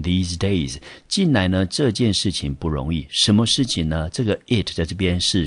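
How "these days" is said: these days said clearly as a phrase; teacher's demonstration of these days; pronunciation of these days. Shown as a demonstration. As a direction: model these days for learners. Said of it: "英文念成these days".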